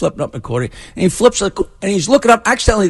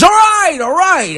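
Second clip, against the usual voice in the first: put-on high, pleading kid; kid giving in; 9 semitones higher, slower than usual. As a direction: blurt it out to stop the slaps. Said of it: "He says".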